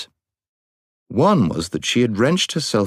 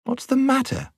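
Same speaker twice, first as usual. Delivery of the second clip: high, sneering question; scornful. A narrator's reading. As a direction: scoff at him from high up. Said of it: "she despised him".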